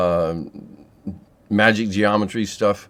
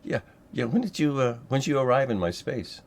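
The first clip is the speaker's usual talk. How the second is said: friendly facilitator; 5 semitones higher, 4 dB quieter than usual. Shown as a demonstration. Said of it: "And friendly facilitator".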